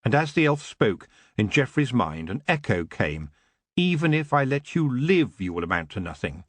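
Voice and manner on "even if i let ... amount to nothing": an echoed threat that sinks away; a hint of his father. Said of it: "the voice of his father".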